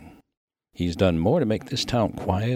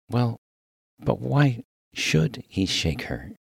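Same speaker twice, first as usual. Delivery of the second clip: higher, slow, puzzled minister; baffled; 4 semitones higher, slower than usual. Acted. Minister baffled by the miner's praise, slow and puzzled. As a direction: question it slowly, pitched up in bewilderment.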